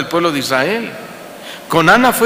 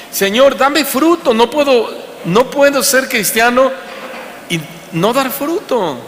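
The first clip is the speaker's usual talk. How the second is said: desperate prayer; 5 semitones higher than usual. Acted. Preacher voices desperate prayer.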